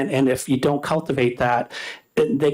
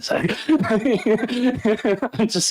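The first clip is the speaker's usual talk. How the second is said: higher, slow words through a real laugh; 9 semitones higher, much slower than usual. Real, not acted. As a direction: laugh off the slip and carry on. Laughs at own slip before committee.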